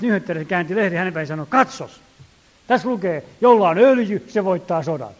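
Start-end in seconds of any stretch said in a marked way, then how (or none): 1.5-5.1 mock excited shout, higher and louder in bursts; a newspaper reader crowing loudly about oil and victory; retold shouting. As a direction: proclaim it triumphantly to the whole train. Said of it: "Huusi keskellä täpötäyttä junaa".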